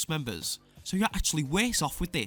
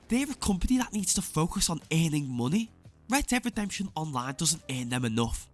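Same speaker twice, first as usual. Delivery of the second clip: mocking fan voice; 4 semitones higher than usual. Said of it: "they said".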